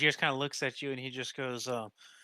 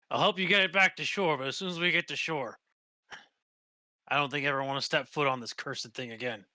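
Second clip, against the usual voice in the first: a touch of weary protest from a sailor; fed-up sailor; 2 semitones higher, 4 dB louder than usual. Acted. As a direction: agree to help, but as a sailor who has had enough. Game master voices the captive sailor.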